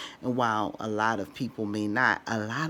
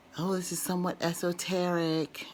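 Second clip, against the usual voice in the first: play-acted, strangely apologetic, pitched-up tone; 8 semitones higher than usual. Mimicking how people in videos say it, in a mock weird apologetic tone. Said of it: "in a very weird apologetic way".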